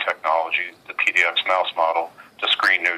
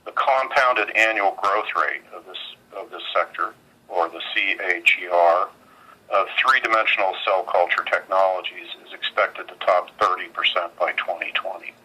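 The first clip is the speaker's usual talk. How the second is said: on speakerphone. Real, not acted. Earnings conference call over phone.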